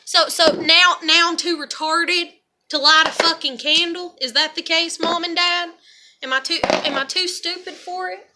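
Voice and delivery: sarcastic, wounded indignation; indignant challenge. Real, not acted. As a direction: throw their accusation back at them. Indignantly challenging absent parents.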